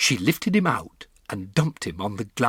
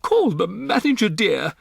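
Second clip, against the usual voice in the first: much higher, louder imperious wife; haughty order; 12 semitones higher, 7 dB louder than usual. Acted. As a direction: snap an order to her husband. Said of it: "Missus Jenkins said to her husband".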